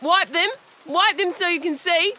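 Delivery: bossily insisting he wipe his eyes; insistent. Acted.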